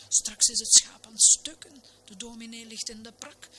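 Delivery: high-pitched fretful lament; acted anxious outcry; wailing. A narrator's reading. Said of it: "kermde de dames groen".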